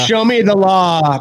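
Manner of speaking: high, slow mock whine of a troll; sneering imitation of an online heckler. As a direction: parody the know-it-all demanding proof. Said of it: "People say that all the time".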